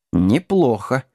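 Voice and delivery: mildly pondering approval; understated, musing approval; thoughtful. Acted. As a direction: weigh the idea as you say it. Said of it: "задумался Герберт".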